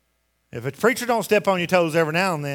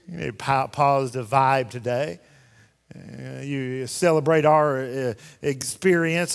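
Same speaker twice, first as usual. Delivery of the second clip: slow, drawn-out mocking imitation; mildly mocking, slowed-down parody; mock feel-good talk; 3 semitones lower, slower than usual. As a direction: stretch it out, lightly sending up the feel-good crowd.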